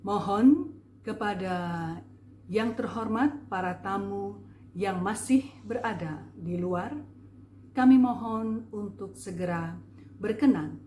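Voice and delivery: grand, measured emcee voice; formal MC announcement. Shown as a demonstration. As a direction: announce it like a formal master of ceremonies. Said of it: "Itu menandakan bahwa acara itu resmi". (suara pembawa acara resmi, megah dan empuk)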